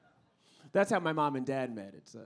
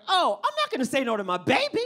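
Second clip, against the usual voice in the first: doting mom; 11 semitones higher, 10 dB louder than usual. Retold or imitated. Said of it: "she's like".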